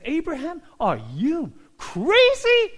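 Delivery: high, loud, slow disbelief; a stunned wife doubting her husband; incredulous wife. Acted.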